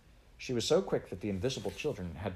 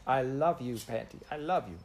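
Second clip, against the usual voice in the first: lightly voiced toddler, higher; a small child gushing love at each sibling; little brother crying out his love, lightly voiced; baby voice crying out; 4 semitones higher than usual. A narrator's reading. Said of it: "cried the lamb".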